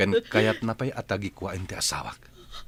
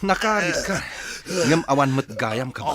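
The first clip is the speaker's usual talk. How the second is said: loud and higher, triumphant; furious taunt after the fight; angry shout; 4 semitones higher, 6 dB louder than usual. Acted. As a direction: shout him down. Hero overpowers villain.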